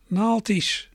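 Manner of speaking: put-on halting, childlike single word; stumbling old peddler. A narrator's reading. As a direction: blurt it out awkwardly, like a shy man who can barely speak. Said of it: "Hij praatte stunteliger dan een kind van vijf".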